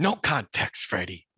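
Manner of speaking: mock drill instructor, high and loud start. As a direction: imitate a strict host calling out a rule. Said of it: "that act the drill instructor mode".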